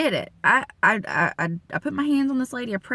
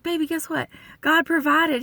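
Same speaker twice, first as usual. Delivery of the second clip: retold excitement; 8 semitones higher than usual. Calls husband with good news.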